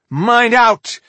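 high, loud urgent shout; shouted warning. A narrator's reading. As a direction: shout a warning to your companions. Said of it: "she shouted to the men and women".

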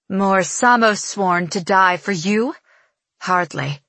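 slow, scornful sneer. Acted. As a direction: drag out the scorn. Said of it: "Evangeline sneers".

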